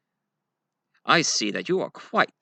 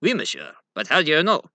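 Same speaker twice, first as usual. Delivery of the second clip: put-on Cajun accent; 5 semitones higher, faster than usual. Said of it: "Your accent".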